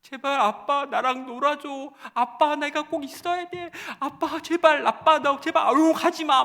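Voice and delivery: high, loud tearful begging; father voicing his crying daughter; imitating a crying child. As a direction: beg like a sobbing child clinging on. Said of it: "얘가 막 울기 시작하는 거예요".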